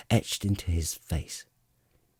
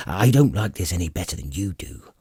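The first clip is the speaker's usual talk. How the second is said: growl; 4 dB louder, faster than usual. Acted. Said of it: "the dwarf growled".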